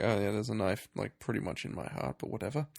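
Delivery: throwaway mock nonchalance; very casual. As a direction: imitate someone totally unbothered. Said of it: "Just, like, very casual".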